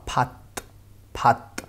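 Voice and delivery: फात closed on a stopped t; demonstrated final-consonant pronunciation. Shown as a demonstration. Teacher giving the pronunciation of this syllable, final-consonant demonstration. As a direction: end फात sharply on the t. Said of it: "इस syllable का pronunciation जो होगा".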